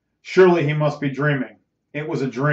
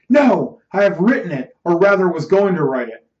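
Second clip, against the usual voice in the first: raised, emphatic protest on the first word; agitated insistence; 2 semitones higher, 3 dB louder than usual. Acted. Ernest telling his friend the play is his, agitated. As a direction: insist on your claim, worked up.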